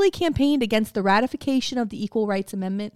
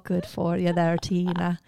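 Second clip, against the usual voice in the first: mock Irish; 3 semitones lower, slower than usual. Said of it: "It's such a good accent".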